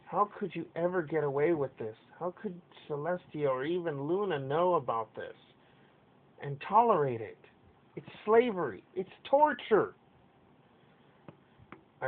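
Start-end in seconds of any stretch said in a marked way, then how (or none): 0.1-9.9 raised, indignant shout building louder; shouted retort. Acted. Pink filly confronts the pony in authority, shouting in outrage. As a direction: cry out in defiant protest, climbing higher and louder. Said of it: "she had shouted to retort".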